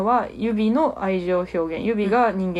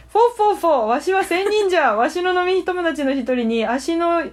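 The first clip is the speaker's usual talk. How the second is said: put-on old sage voice, raised pitch; wise old hermit; 4 semitones higher than usual. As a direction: play an ancient hermit chuckling.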